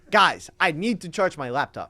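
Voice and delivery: lightly voiced teacher calling to the class; Spanish professor imitation. Student re-demonstrating his professor to a doubting friend, emphatic imitation. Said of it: "That's just how he said it".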